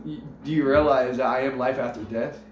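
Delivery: low, measured divine question; solemn God. Acted. God solemnly addresses the dead man.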